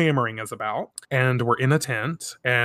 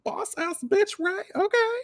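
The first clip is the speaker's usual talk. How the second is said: much higher, admiring okay; impressed sass; 3 dB quieter than usual. Retold or imitated. Host admiring Ray's comeback, high and impressed. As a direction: gush at her nerve. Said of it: "It's like".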